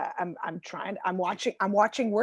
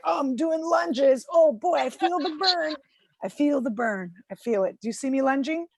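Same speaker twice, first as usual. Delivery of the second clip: fake effort; 4 semitones higher than usual. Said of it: "I'm like".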